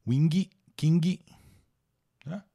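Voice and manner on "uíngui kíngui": wing, king as "uíngui, kíngui"; higher, add an "ee" after the G in wing, king; wrong added ending. Shown as a demonstration. Teacher shows what not to add, wrong Brazilian ending. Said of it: "Nada de botar".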